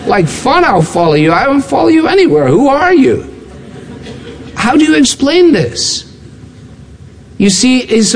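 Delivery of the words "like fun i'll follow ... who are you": higher, faster indignant brush-off; mock indignant refusal; scoffing refusal. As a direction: wave him off in disbelief. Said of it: "You're like".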